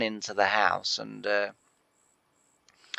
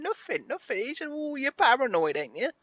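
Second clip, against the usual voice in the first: laughing denial. Retold or imitated. Dad laughing while denying.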